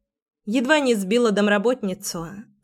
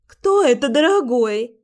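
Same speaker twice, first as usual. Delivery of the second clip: exclaiming; 4 semitones higher than usual. Acted. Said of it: "воскликнула девушка".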